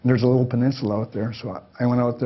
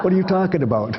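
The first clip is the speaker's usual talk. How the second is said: baffled doctor voice; 8 semitones higher, 4 dB louder than usual. Retold or imitated. Retold doctor's baffled reply.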